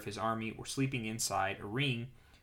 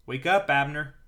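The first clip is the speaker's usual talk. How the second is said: raised, louder call to wake someone; shouting down; 4 semitones higher, 10 dB louder than usual. A narrator's reading. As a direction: call it out higher and louder, as if to soldiers below. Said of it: "Then he shouted down to the soldiers".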